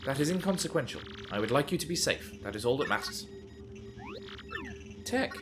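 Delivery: a hint of a calm, selfless computer; self-sacrificing computer.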